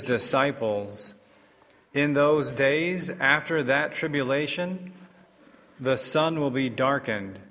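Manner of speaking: formal liturgical proclamation; measured, solemn scripture reading; Gospel reading. Acted.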